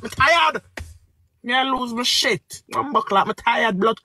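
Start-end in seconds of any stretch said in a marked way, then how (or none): 0.0-0.6 upset streamer shouts she is exhausted; real shout. Real, not acted. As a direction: burst out with it. Shouted peak of the rant.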